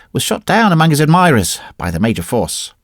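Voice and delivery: ordinary delivery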